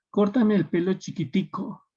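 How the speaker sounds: a light Cuban imitation on "chiquitico"; Cuban speech. Shown as a demonstration. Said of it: "los cubanos".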